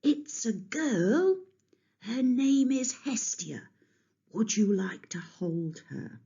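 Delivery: high, slow, hushed words ending in a whisper; don't wake the sleeping baby; hushed mother. A narrator's reading. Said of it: "she tiptoed up to Kronos".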